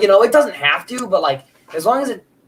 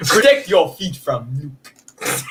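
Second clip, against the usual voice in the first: put-on Russian accent; slower than usual. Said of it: "with a heavy Russian accent".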